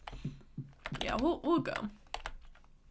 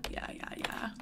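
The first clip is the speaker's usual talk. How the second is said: whispering; 5 dB quieter than usual. Real, not acted. Quiet repeated yeahs while playing.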